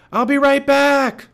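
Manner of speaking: high, loud, drawn-out call. A narrator's reading. Jack running off from Annie, calling out. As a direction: holler it back over your shoulder. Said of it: "Jack called".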